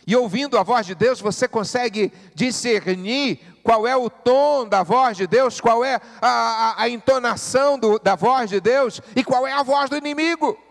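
loud, high, urgent pulpit preaching; full-force preaching. Acted. Pastor urges the congregation, loud fervent preaching.

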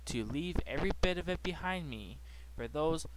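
soft, measured inspirational intro; solemn opening message. Acted. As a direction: read a quiet, solemn dedication before the show. Reads a solemn show opening.

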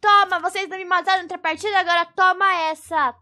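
loud victorious shouting; triumphant gloating. Real, not acted. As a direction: gloat loudly over the win. Winning the round.

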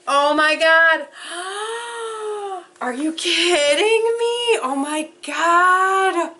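loud, high, drawn-out squeal of disbelief; gasp, then stretch each word in high excitement; real overjoyed amazement; thrilled disbelief. Real, not acted. Stunned by the bag inside.

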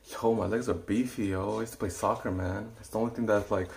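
panting between words after a workout; winded, catching breath while talking. Real, not acted. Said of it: "sorry, my breath".

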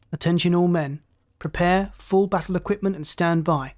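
controlled battle order; firm command. Acted. Lieutenant takes over the intercom to ready the men, firm command. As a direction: take charge, steady and authoritative.

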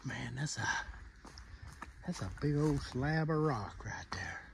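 hushed whisper about the rock. Real, not acted. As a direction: whisper it in awe. Looks at the big rock.

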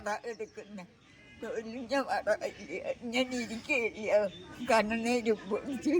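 real tearful murmur. Real, not acted. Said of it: "കരയാതിരിക്കണം".

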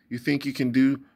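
a touch of scolding; father telling off his son, mildly angry; mild anger. Acted. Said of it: "his father said angrily".

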